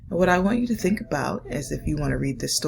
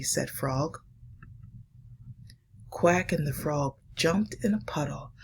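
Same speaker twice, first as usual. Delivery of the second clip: put-on hushed, slowed reading for children; story reading; slower than usual. Reads picture book aloud.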